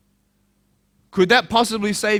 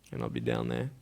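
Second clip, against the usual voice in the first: whisper; 11 dB quieter than usual. Real, not acted. Near suicide, whispered.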